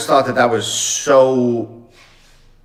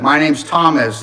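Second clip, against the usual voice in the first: a bit louder for a deaf listener; mild raised voice so the old man can hear; 3 semitones higher than usual. Retold or imitated. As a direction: repeat your name a little louder.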